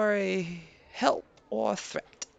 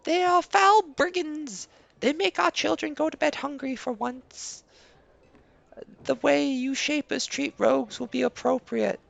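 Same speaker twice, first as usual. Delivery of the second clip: a slightly higher, measured villager voice; lightly voiced villager; 5 semitones higher than usual. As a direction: read the NPC a touch higher and earnest. Same NPC continues.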